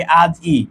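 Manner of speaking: আজ ই said as two parts, আজ then ই; sound-by-sound pronunciation. Shown as a demonstration. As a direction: break আজ ই before the final ই. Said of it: "আমরা যদি উচ্চারণ করি". (আজ ই, শেষের ই আলাদা করে উচ্চারণ)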